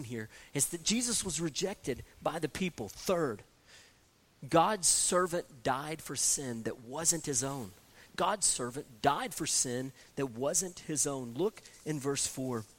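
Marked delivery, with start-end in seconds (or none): 4.5-7.7 slow emphatic. Shown as a demonstration. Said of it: "repeated for emphasis". 8.2-11.3 slow emphatic. Shown as a demonstration. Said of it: "repeated for emphasis".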